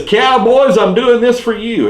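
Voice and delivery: high shouted dedication; fanatic yell. Retold or imitated. Cowboys fan yells his team's name while leaping, high fanatic cry. Crazy fan jumping off mountain.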